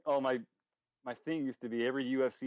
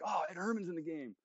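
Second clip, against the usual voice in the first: lightly reenacted excitement, higher pitch; a touch of delighted surprise, retold; mock excitement; 4 semitones higher, 3 dB quieter than usual. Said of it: "I get all excited".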